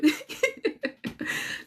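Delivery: airy giggle breaking out; a high unvoiced chuckle; high breathless laugh. Real, not acted. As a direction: laugh at your own story. Bursts out laughing at herself.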